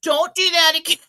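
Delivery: a mild motherly telling-off, not really cross; gentle mom. Retold or imitated. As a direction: mom patting kids through jeans, mildly scolding. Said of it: "She's just like".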